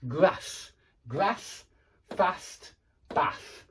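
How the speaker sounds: short a in "grass, fast, bath", northern English style; northern UK pronunciation. Shown as a demonstration. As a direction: separate northern-accented sample words. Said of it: "in the north of the U K".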